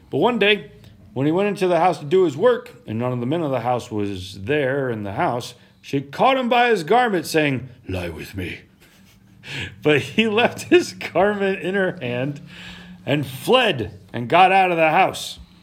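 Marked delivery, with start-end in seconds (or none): 7.8-8.6 put-on low, soft girl voice. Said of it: "That's my girl voice".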